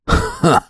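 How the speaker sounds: a single choked laugh; stifled breathy laugh. A narrator's reading. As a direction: burst out despite himself. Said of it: "начал смеяться".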